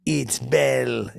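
stretched-out hail; attention-getting call. Retold or imitated. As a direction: announce yourself to get his attention. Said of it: "like, I get his attention".

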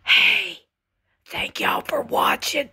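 whispered sign-off to viewers; hushed, breath-only thanks; playful ASMR whisper. Pretend. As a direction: whisper it like a mock ASMR host. Playing at A S M R whispering.

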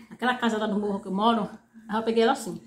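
chewing between words; talking while eating. Real, not acted. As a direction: mouth partly full. Seen 5: Bites and chews a chicken bone between phrases while talking.

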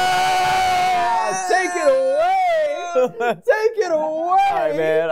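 high, long-drawn victory yell; high-pitched whooping celebration; triumphant shout. Real, not acted. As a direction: cry it out in celebration, stretching every word. Celebrating at the end of match.

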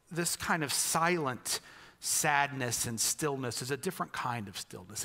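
normal talking voice

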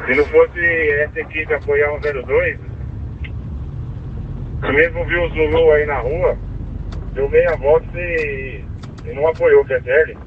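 crackly two-way radio transmission; squelchy handheld radio; police radio. Real, not acted. Officer complains over radio.

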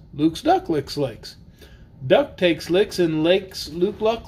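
lively sing-song read-aloud; reading to children. Acted. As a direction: read the rhyme playfully to kids. Reads tongue-twister book aloud.

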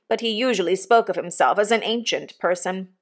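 ordinary delivery, nothing marked

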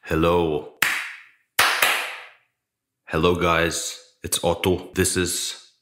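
echoey empty studio; room echo. Real, not acted. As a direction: voice bouncing off bare walls. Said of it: "As you can hear, this place is very echoey".

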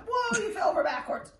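high, loud whoa at a tumble; startled exclamation. Real, not acted. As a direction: react loudly as the puppy topples, voice jumping up. Puppy tumbles over backwards.

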